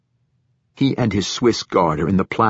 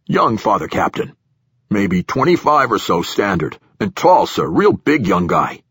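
nervous platform director; 3 dB louder than usual. Acted.

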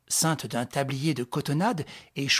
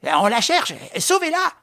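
high, loud, pleading cry; desperate plea; 11 semitones higher, 7 dB louder than usual. Acted. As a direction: beg him to save her. Innkeeper begs Raoul.

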